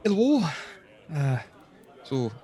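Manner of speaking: high, chirpy hello then easing down; a bubbly tavern waitress; waitress greeting the adventurers, chirpy. Acted. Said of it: "She goes".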